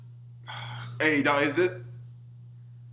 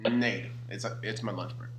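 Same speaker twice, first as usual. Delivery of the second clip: mock refusal; 5 semitones lower, 4 dB quieter than usual. Guard voiced refusing.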